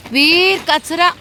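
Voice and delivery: calling dog. Real, not acted. Woman calls her dog away from rubbish, high loud call. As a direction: call the dog sharply from afar.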